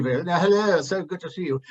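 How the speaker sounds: a quick mock English greeting; a hint of a polite English accent. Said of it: "an English accent".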